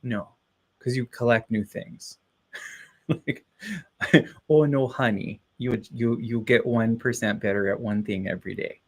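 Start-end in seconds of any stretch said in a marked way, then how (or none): 4.5-8.8 lightly voiced Minnesota grandma; Minnesota grandmother. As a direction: slip gently into a Minnesota granny accent.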